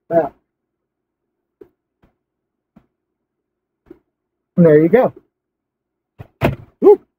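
muffled by cloth mask; speaking behind fabric covering; through a face mask. Real, not acted. Seen 5: Fabric mask covers his mouth and nose throughout the labelled words.

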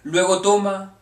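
measured poetry reading, phrase by phrase; poem recitation. Acted. Reads a poem aloud.

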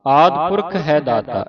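slow, drawn-out measured chant; slow scripture recitation. Shown as a demonstration. Teacher reciting scripture slowly for a student. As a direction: recite slowly, pausing at each stop.

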